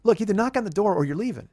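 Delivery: retold fed-up demand; a little pissed off. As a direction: lay down the choice with rising irritation. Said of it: "start getting a little pissed off".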